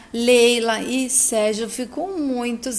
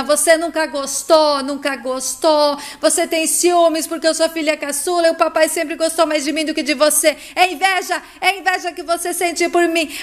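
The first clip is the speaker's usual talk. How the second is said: higher-pitched, heated narrated outburst; angry accusing; 4 semitones higher, 4 dB louder than usual. Acted. Heloísa accuses her sister of jealousy, angry. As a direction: push the sister away with your voice.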